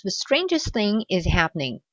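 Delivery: careful model reading of the sentence; model English reading. Shown as a demonstration. Teacher reads the first sentence as a model. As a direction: read it out as a clean example. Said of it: "je vais prendre la première phrase".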